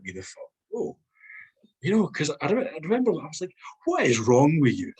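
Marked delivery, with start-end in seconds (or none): 3.8-4.9 laughing retort. Retold or imitated. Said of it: "I remember saying that".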